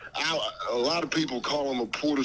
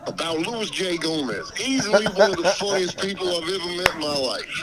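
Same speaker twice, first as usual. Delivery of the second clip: Dave Chappelle voice. Pretend. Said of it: "You sound just like him".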